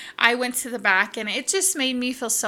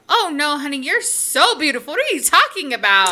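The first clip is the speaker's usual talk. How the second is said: insistent compliment; 4 semitones higher, 5 dB louder than usual. Retold or imitated. He protests her self-deprecation.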